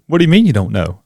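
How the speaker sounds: mock exasperation at a student; exasperated teacher. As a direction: act out a baffled teacher. Teacher's exasperated reply, retold.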